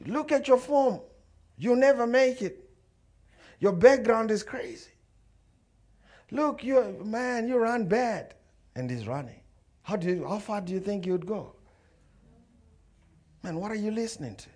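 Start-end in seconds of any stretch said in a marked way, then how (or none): 0.1-8.3 high-pitched roadside jeering; acted spectator yelling at a runner; shouting heckler. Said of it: "side of the road start shouting". 9.8-14.5 high, lightly voiced heckler; mocking onlooker; heckling spectator. Voicing the roadside hecklers.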